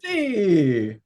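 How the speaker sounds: put-on a single Latino-accented "Sí"; one word in a Latino accent. Asked for a Latino accent, he gives one word. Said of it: "can you try a, uh, Latina, Latino accent there".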